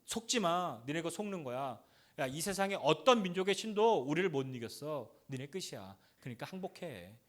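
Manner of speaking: a lightly voiced sneering enemy; mocking taunt. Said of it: "또 하나는 뭐라고 얘기하냐면".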